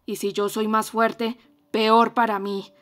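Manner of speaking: loud, fierce reproach; ferocious. Acted. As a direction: hurl the blame at her, fiercely. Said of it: "le dijo con acento feroz".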